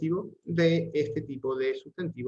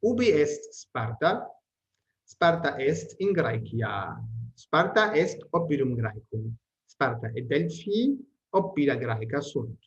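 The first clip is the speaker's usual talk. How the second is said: measured, careful textbook reading; steady read-aloud of Latin sentences; Latin text reading; slower than usual. Acted. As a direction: read each sentence out clearly for the class.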